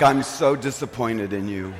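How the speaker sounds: a hint of a scolding mother, laughing through it; mock-stern mom, half laughing; lightly voiced disappointed mother. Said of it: "I turned into my mother".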